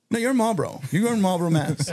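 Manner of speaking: high emphatic cop correction. Retold or imitated. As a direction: spell it out to the drunk guy.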